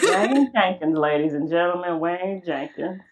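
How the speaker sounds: mock-grand introduction in an overacted voice; Jon Bernthal impression. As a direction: belt out the name, then draw it out on the repeat. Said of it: "a really bad impression of him".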